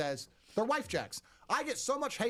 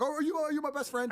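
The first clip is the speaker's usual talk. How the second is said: mocking a woman; 10 semitones higher than usual. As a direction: squeal it like a clingy girlfriend. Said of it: "They're like".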